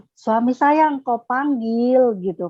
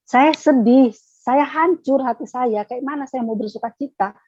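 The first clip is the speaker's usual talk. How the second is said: grieving protest; 3 semitones higher than usual. Retold or imitated. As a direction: pour out the heartbreak to God. Protesting to God in grief.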